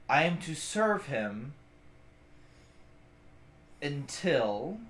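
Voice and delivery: slow, low, solemn orc voice; a lightly voiced orc, grave and measured; orc's reply. Orc bodyguard to the party, solemn and slow. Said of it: "he goes".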